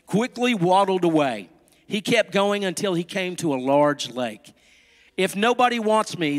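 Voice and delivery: lively, melodic storytelling with careful phrasing; animated picture-book narration; storybook read-aloud. A narrator's reading. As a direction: read it to little children.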